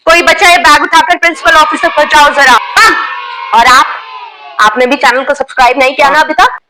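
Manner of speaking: lightly voiced strict schoolteacher, scolding the class; a teacher catching girls with nail paint, scolding; stern teacher scolding. Teacher confronts student over phone.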